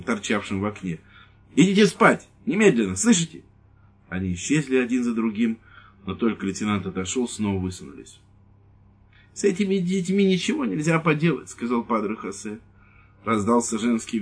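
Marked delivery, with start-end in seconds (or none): 1.5-3.4 high, loud angry command; angry order. Acted. Lieutenant ordering the kids to bed, loud and angry. 9.3-11.5 put-on high, weary old man's complaint; helpless old priest. Priest complaining to the lieutenant, high and helpless.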